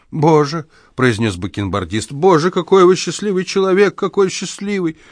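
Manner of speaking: high, eager gasps of admiration; envious rapture. Acted. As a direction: marvel at a lucky man. Old man envies dreams. (восторженно)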